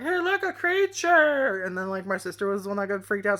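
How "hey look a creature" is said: high, slow delighted call; mock childish glee; childlike excitement. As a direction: sound like a kid thrilled by a bug. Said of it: "I used to be like".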